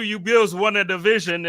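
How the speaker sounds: mock a Patriots fan in a Boston accent, pushing it; hammed-up Boston accent mocking the Bills' division win. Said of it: "You know, you do".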